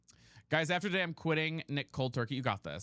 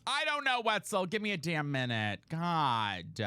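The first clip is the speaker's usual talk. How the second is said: exasperated outburst; 2 semitones higher, slower than usual. Real, not acted. Snaps back at a pestering viewer.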